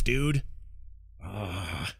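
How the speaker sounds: ordinary delivery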